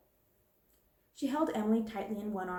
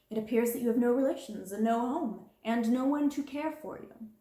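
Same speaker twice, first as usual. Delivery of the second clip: louder, cold and cutting; harsh headmistress; 3 semitones higher, 4 dB louder than usual. Acted. Cutting headmistress. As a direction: headmistress reminding the orphan she is alone, cutting. Miss Minchin belittles Sarah.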